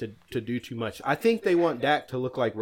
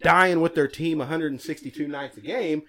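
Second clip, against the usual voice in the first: angry; 2 semitones higher than usual. Real, not acted. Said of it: "He's mad".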